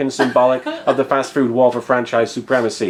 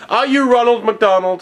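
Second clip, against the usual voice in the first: high excited question; 8 semitones higher, 4 dB louder than usual. Acted.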